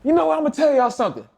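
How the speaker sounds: coach voice. Retold or imitated. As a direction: call out the whole team. Coach addressing team.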